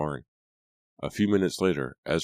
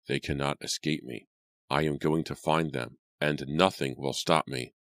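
grind it out through teeth; through gritted teeth. Acted. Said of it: "he said slowly through gritted teeth".

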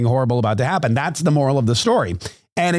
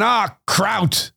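higher-pitched cry of mild dismay; startled mock curse; 7 semitones higher than usual. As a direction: exclaim as if startled by a spill. Startled lady curses spilled kraut.

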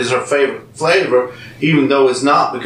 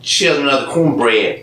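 southern accent; slower than usual. Shown as a demonstration. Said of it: "You gotta say it southern".

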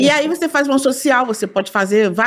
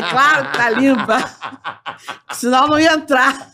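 laughing; 2 semitones higher than usual. Retold or imitated.

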